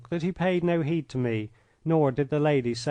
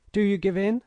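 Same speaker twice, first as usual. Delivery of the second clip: demanding; 6 semitones higher, 3 dB louder than usual. A narrator's reading. Angry demand.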